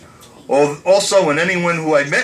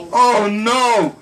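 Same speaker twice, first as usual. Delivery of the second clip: high, gasping laugh of recognition; gasped realization; 7 semitones higher, much slower than usual. Retold or imitated. Mother recognizing the guest, gasping high with laughter. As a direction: gasp it out as the truth dawns.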